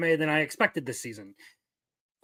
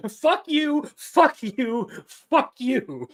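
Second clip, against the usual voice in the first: mock yell; 5 semitones higher, much slower than usual. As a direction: toss it off again for the clip. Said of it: "There's your clip".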